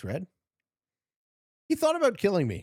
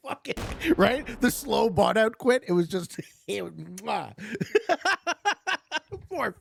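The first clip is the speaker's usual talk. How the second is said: high, laughing through the words; can't stop giggling while telling it; 10 semitones higher than usual. Real, not acted. Streamer gloating over smacking Black, giggling. Giggling recounting a good kill.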